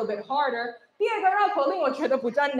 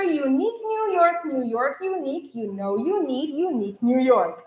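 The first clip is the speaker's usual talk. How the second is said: a little faster. Shown as a demonstration. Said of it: "say it a little faster".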